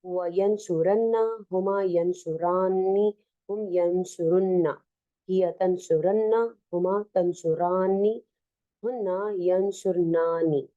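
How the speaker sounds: quick sing-song recital of the conjugations; reciting a verb chart. Shown as a demonstration. Teacher reading the chart aloud to students, brisk recital. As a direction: rattle off the table like a drill.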